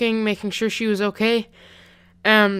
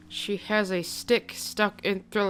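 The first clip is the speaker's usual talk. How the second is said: softer, retold hushed warning; mild mock whisper, still voiced; 6 dB quieter than usual. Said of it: "my neighbor whispered to him".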